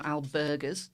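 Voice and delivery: albergues in a self-conscious Spanish accent. Shown as a demonstration. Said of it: "Terrible Spanish accent".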